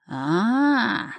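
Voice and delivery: knowing ah. A narrator's reading. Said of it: "смекнул Водяной".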